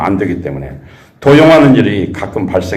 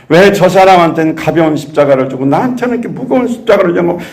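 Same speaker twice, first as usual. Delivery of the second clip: grumbling complaint; 8 semitones higher than usual. Retold or imitated. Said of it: "계속 불평을 늘어놓는 것입니다".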